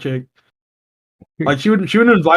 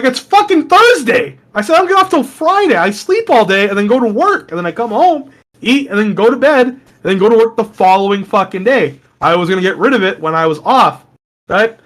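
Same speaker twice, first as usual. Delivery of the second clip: exasperated shout; 4 semitones higher than usual. Retold or imitated. Arguing back at his aunt over the mattress, high exasperated shout. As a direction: vent it with high frustration.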